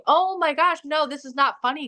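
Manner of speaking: high-pitched mock alarm; high, dismayed pleading, acted out; retold freaking out. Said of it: "And I'm freaking out".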